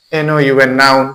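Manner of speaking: letter names run together, ending on নাউন; teacher spelling নাউন aloud. Shown as a demonstration. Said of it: "syllable করে".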